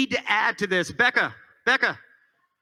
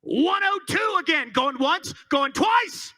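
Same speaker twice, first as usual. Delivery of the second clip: auctioneer calling; 6 semitones higher than usual. Acted. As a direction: rattle off the bids and build.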